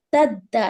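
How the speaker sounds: تد دا with a doubled d; تد دا with both d sounds given. Shown as a demonstration. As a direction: close on the d, then release it afresh in تد دا. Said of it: "یہاں پر double آواز آئے گی".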